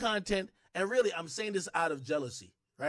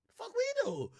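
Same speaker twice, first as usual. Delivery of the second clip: mock outrage; faster than usual. Imitating people shouting down straights.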